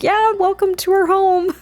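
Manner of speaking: high-pitched, put-on welcome; Archer. Husband greeting his visiting in-laws, over-eager. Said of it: "And Archer's like".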